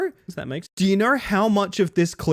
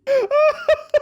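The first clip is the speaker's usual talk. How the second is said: loud, high shriek of laughter; high burst of laughter; 6 dB louder than usual. Real, not acted. Streamer cracking up at chat, with a loud high laugh. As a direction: explode into a laugh.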